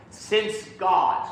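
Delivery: "since" clearly weighted before "God"; pickup brought out. Shown as a demonstration. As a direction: lean on "since" going into "God". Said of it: "all those sinces and fors".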